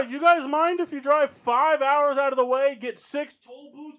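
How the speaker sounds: loud, high, slow sarcastic rant; yelling. Real, not acted. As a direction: yell it out in disbelief. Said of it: "we are yelling".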